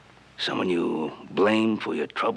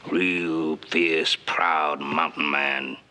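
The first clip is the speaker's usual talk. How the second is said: slow mocking stress; much slower than usual. Goading Tulsa, mocking his pride.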